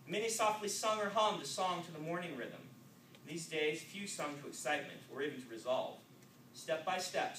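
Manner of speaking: steady, measured reading voice; even-paced novel reading; story narration. A narrator's reading. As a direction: read it like telling the story to listeners. Author reads his novel aloud.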